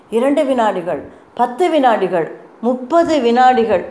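ordinary delivery

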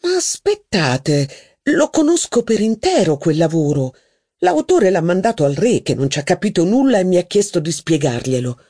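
haughty duchess. Acted. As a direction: gossip grandly about her cousin's wife. Duchess voiced in reading.

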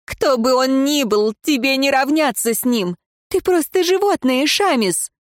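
high, taunting contempt; высокий презрительный вызов; defiant outburst. A narrator's reading. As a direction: spit scorn at him from up high. Prisoner defies her jailer.

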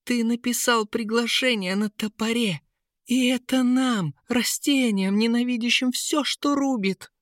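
high flower voice, offended; indignant plant voice; high reproachful lily. A narrator's reading. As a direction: keep her pitched high and wounded.

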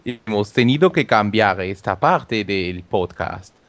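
Spanish with a put-on French accent; deliberately bad French accent. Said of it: "ha puesto acento francés".

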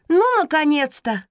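finally, at last!; relieved exclamation. Acted. Voice calls from above. (облегчённый возглас)

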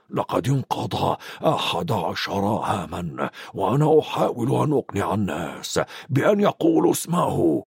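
a lightly voiced old wizard, reasoning; gentle reproof, then the name plainly; Dumbledore gentle. Dumbledore urges McGonagall to say the name, gently.

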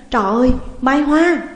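high, loud horrified cry; shriek. A narrator's reading. Woman recognises the ghost in the driver's seat, screaming. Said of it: "thét lên".

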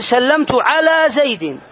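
slow and deliberate example sentence; slow teaching demo. Shown as a demonstration. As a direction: spell it out for the class. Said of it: "فتقول". (نطق بطيء للمثال)

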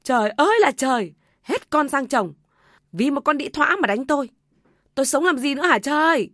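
high-pitched aggrieved wail, acted by a narrator; hammed-up aggrieved outcry; wailing lament. A narrator's reading. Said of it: "bù lu bù loa".

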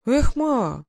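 breathless wonder, slowing down; mildly awed soldier; amazed whistle. A narrator's reading. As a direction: gasp at the pile of coins. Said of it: "присвистнул запыхавшийся Михайлов".

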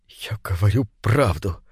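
low, strained words through tears; процедил сквозь слёзы. Acted. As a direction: squeeze it out, holding back sobs. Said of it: "процедил Алексей сквозь слёзы". (Алексей низко цедит сквозь слёзы ведущему)

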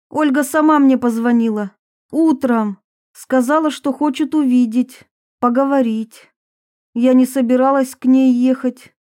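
put-on a touch of irritated young woman; lightly voiced defiant Varvara. Varvara justifies visiting Olga, mildly indignant.

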